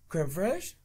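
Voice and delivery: airy fake French accent, rising at the end; mock French accent. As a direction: say it like a movie Frenchman. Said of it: "He's like".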